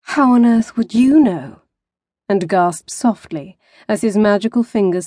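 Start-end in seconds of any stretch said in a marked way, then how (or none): 0.0-1.6 retort. A narrator's reading. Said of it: "Tessa retorted".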